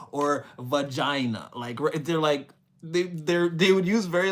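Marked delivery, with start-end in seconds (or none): 0.1-1.5 slow, carefully measured clinical word; mock-proper, drawn-out wording; structured formal speech. Imitating an educated seducer naming body parts, structured and formal. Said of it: "a very structured way of speaking".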